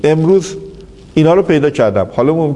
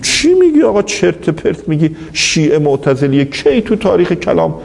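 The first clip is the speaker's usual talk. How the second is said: retold angry outburst; 4 semitones higher than usual. Senior scholar protesting at the conference, mock angry outcry. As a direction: imitate an outraged objection, starting high and easing down. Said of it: "فریاد کشید".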